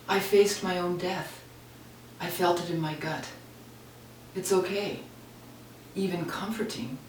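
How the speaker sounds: measured, solemn prayer with spaced phrases; poem reading. Acted. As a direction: recite a confession to God, pausing after each phrase. Reads her prayer poem.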